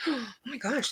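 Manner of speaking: gasp, then slow delighted words; thrilled at a new find. Real, not acted. Gasps opening new makeup.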